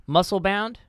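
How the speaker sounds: struggling reader, long gaps between words; halting reading. Acted. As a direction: sound it out haltingly word by word. Halting attempt to read aloud.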